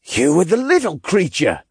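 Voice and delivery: surprised. Acted. Zeitman realizing.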